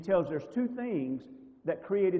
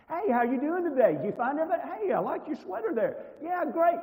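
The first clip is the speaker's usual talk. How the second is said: much higher, bright chatty friendliness; overly friendly cashier greeting; 10 semitones higher, 4 dB louder than usual. Retold or imitated. Shopper imitating a cheery chat with a nice cashier, much higher and upbeat. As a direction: gush at the clerk like an old friend. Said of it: "Nicest person in the world".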